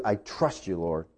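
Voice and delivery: low, soft surrender; hushed prayer. Acted. Believer talks to God about trusting him, hushed. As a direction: confide it quietly to God.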